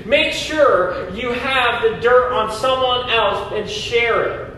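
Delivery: mock advice, dripping irony; sarcastic. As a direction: list them like tongue-in-cheek tips. Sarcastic list of church-killing habits.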